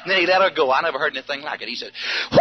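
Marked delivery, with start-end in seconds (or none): 2.3-2.4 long, high full-voiced whoop; imitated shout. Storyteller showing what his friend did, huge high whoop. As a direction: let loose like a big man shouting. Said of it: "I'm gonna show you what he did".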